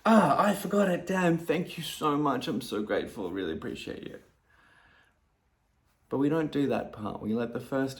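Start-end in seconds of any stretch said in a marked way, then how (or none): 0.0-4.2 grateful reply. Retold or imitated. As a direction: catch yourself and thank them kindly. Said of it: "if I was more honest, would go".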